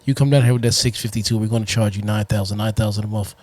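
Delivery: low, fast hard sell; car salesman voice. Acted. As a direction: pitch the deal like a dealer. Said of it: "car salesman voice".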